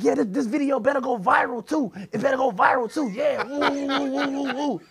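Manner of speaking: high, loud mock bragging; high-pitched excited taunt with woo-woos; defiant hype. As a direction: crow about it, ending in whoops. Retold defiant hype in handcuffs.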